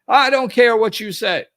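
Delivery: loud, high, defiant shout back; angry retort. Retold or imitated. The yeller shouting back at the boundary, loud and defiant. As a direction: snap back at her like an angry caller.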